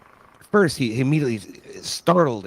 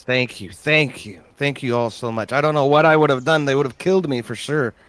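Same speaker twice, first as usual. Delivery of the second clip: grateful farmer; 4 semitones higher, 4 dB louder than usual. Acted. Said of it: "he looks through you and says".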